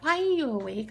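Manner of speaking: a child's curious question, imitated; Lila. Niece asking her sleepless aunt, childlike curiosity. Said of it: "And she's like".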